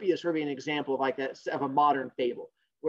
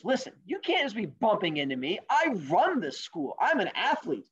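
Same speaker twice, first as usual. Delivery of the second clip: higher, emphatic jock boast; boastful rabbit; 4 semitones higher than usual. Acted. Rabbit tells the turtle who runs the school, boastful. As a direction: lay down the law, hammed-up.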